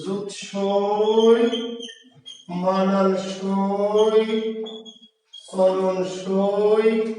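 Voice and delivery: very slow, drawn-out exam words; slow dictation. Shown as a demonstration. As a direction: spell it out slowly for the exam. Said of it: "পরীক্ষায় কি আসবে". (পরীক্ষার জন্য খুব ধীরে টেনে)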